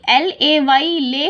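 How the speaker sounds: letters read out slowly; slow spelling out. Shown as a demonstration. Teacher showing children another way to read. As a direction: break it down slowly for the class. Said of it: "या तो आप इसको ऐसे पढ़िए".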